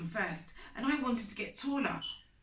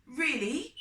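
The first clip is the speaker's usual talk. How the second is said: guilty surprise; 6 semitones higher, 6 dB louder than usual. A narrator's reading. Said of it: "I said".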